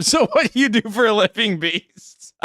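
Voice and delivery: high-pitched put-on host voice, dropping away on the last word; Tony Hinchcliffe impression. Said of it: "Tony Hinchcliffe".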